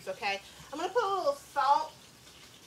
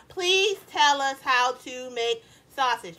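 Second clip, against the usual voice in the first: slow, every word spelled out; 6 dB louder, slower than usual. Shown as a demonstration. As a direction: dictate it slowly so they type it all. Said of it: "actually type out that whole sentence".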